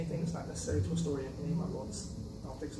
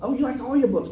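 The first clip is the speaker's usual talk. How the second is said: higher, louder sing-song mockery of a scolding person; a hint of a preachy onlooker; mock expected voice; 8 semitones higher, 7 dB louder than usual. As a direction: parody the polite rule-keeper. Mocking what people expect said.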